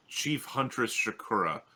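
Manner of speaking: ordinary delivery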